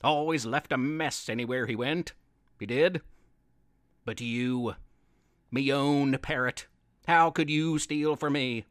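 low pirate Pete, hurt and accusing; a pirate scolding his own parrot. Acted.

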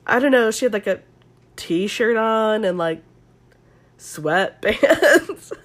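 halting, drawn-out SoCal dude; Connor's SoCal voice. Retold or imitated. Podcaster mimicking Connor describing clothes, mock SoCal drawl. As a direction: imitate a surfer stretching out each item. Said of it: "let me try to do his SoCal voice".

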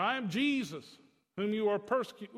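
near-plain retelling of Jesus' words; just quote him, barely acting; Jesus' words said almost plainly; lightly voiced Jesus. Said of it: "You know".

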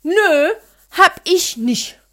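loud, slow sulky no; sulky child's denial. Retold or imitated. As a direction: pout it out like a caught child. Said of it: "kam mit Mau-Mau-Gesicht".

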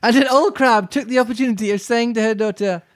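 narration with a light French lilt; a hint of a French accent on the narration; slightly French narrator. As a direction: read the line with a hint of French. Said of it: "you went slightly French on the narrator".

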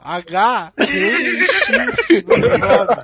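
loud and laughing, drawn out. Real, not acted. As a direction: laugh through the words, slowly.

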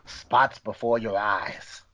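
slow, measured title announcement; drawn-out, low-key title read; slow title reveal. Pretend. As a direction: announce the title slowly, letting it fall. Reads out the title clue first time.

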